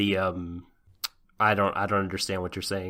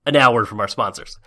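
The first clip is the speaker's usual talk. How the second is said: TV announcer; 5 dB louder, faster than usual. Pretend. Mock TV segue.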